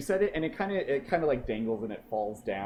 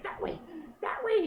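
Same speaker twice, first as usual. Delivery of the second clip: bird voice. Acted. Bird points the way.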